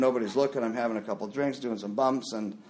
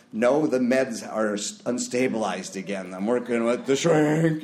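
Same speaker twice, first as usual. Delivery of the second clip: put-on drunk excuse; 3 dB louder than usual. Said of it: "Are you drunk?".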